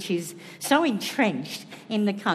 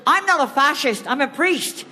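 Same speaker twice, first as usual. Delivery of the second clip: mock Irish priest, higher and emphatic; bad Irish accent; 4 semitones higher than usual. Quoting Ted on stage, rough Irish accent. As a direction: quote Father Ted in a rough Irish lilt. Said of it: "Another one from Father Ted".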